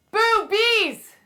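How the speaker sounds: high shouted boo at the bees; a playful scare yell; loud boo. Shown as a demonstration. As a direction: startle the hive. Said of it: "you will in a second".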